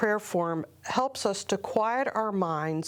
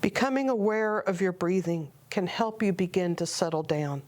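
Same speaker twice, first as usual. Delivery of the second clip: calm, measured meditation guide with long pauses; guided meditation. Acted. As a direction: unhurriedly guide listeners into prayerful stillness.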